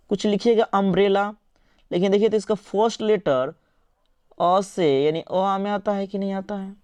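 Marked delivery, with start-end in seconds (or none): 0.6-1.3 "अम्ब्रेला" opening on a short "uh", not "yoo"; demonstrated pronunciation. Shown as a demonstration. Teacher shows students how it sounds, "अम्ब्रेला" starting with अ. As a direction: say "अम्ब्रेला" with a first vowel अ, as in "up". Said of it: "कैसे उच्चारण लिखेंगे".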